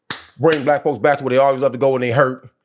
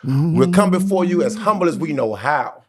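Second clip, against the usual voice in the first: mock church prayer; 3 semitones higher than usual. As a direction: pray it like a deacon at the altar, half joking.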